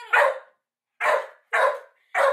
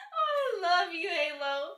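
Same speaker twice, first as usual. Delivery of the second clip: mock teary; 5 dB quieter, slower than usual. Dog defended her.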